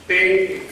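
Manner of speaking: high, short ringing "ting"; imitated instrument ting. Shown as a demonstration.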